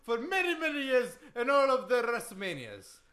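put-on boastful accented wrestling champ; Iron Sheik. Wrestler reciting his wins to the host, boastful accent. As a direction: brag in thick broken English. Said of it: "that Iron Sheik impression".

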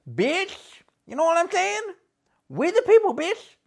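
high, cocky gangster wrestler voice; gangster wrestler persona. Acted. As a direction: strut through it like a trash-talking heel.

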